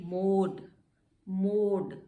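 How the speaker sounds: मोड said with a long o; teacher demo. Shown as a demonstration. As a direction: stretch the o in मोड. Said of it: "ओ की sound आ गई". (मोड में लंबा ओ)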